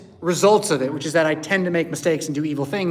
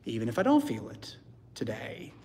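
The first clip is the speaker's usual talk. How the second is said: whispered vow; 8 semitones lower, 10 dB quieter than usual. Acted. Voicing a personal prayer vow.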